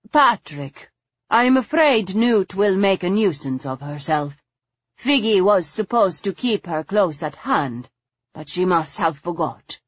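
lightly voiced, slightly flustered hostess; a touch of worried complaint to Patrick; harried lady.

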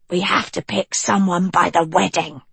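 put-on cool, level young witch; Annadil voice.

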